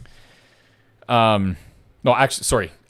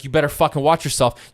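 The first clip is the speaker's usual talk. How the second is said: raised mock warning, livelier than a mutter; retold threat; 3 semitones higher than usual. Angry man going down the block, imitated parting threat. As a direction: imitate a threat thrown while leaving.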